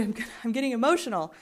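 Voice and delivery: fast, embarrassed laugh while choking up; laughing through tears. Real, not acted. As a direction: laugh it off as the emotion rises.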